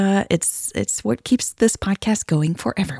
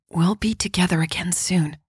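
softer, gently reassuring; a soft promise to a worried partner; softly; 5 dB quieter than usual. Acted. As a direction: comfort her quietly. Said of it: "she said softly".

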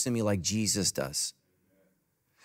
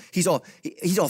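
ordinary talk

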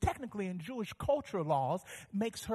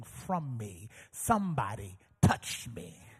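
Jesus answering; 5 semitones lower than usual. Retold or imitated. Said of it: "Jesus says".

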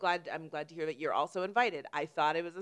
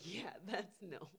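whisper; 12 dB quieter, much slower than usual. Real, not acted. Laughing whisper about day drinking.

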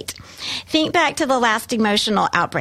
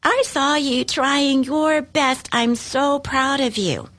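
slowed, higher, tender praise; gentle praise; 5 semitones higher than usual. Shown as a demonstration. Parent praising a struggling child, slow and tender. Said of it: "Or you could say".

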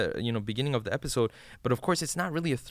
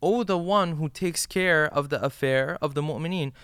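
raised, slightly higher call; 4 semitones higher than usual. Retold or imitated. A believer in hellfire calling out for his protector, raised voice. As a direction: call out across a crowd for help. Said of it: "I will call out and I will say".

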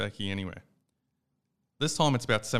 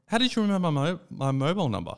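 pitched way up in disbelief; an incredulous, rising how-did-you; amazed high voice; 9 semitones higher, 5 dB louder than usual. Retold or imitated. Husband to wife on phone, high amazed disbelief.

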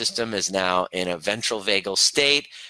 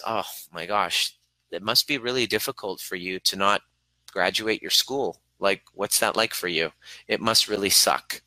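empathic and caring. Shown as a demonstration. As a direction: really feel it with them. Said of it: "Versus empathy is".

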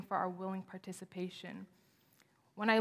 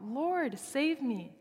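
higher, a touch of Peter's panic; mild cry for help; 6 semitones higher, much slower than usual. Acted. Peter sinking calls to Jesus, a mild higher plea. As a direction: call out as if sinking, understated.

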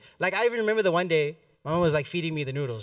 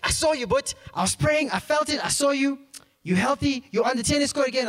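excited shouting; 7 semitones higher than usual. Retold or imitated. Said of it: "starts screaming to the phone".

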